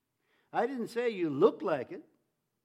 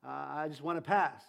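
timid; 5 semitones lower than usual. Retold or imitated. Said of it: "I didn't want anybody to see or hear me".

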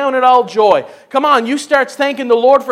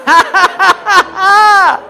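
higher-pitched deliberate ha-ha laughter; exuberant laugh; 7 semitones higher, 5 dB louder, slower than usual. Real, not acted. Preacher after thanking the Lord, exuberant laugh. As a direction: laugh it out in bursts.

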